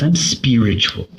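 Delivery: mock-refined, amused delivery; with finesse. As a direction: say it with affected finesse, poking gentle fun. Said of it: "say it like that with so much finesse".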